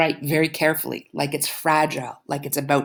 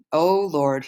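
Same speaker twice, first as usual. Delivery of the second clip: story narration. A narrator's reading. Teacher reading a novel chapter to students, in a calm narrating voice. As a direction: read the novel aloud to the class.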